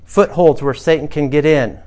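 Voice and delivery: usual speaking voice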